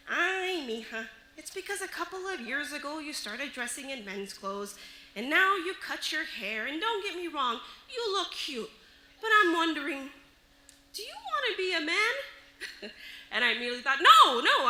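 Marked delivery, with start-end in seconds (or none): 0.1-12.9 mom. Retold or imitated. Mother carefully questioning her daughter, lightly voiced. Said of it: "my mom says this". 14.0-14.7 loud, higher retold denial; emphatic protest. Daughter answering mom's question, emphatic protest.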